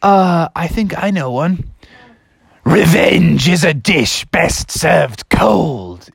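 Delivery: slow, drawn-out pupil frog; Froggy reciting. Acted. Froggy offers a wrong rhyme to teacher, slow ominous delivery. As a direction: stretch it out with mock menace. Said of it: "Froggy raised his hand and said".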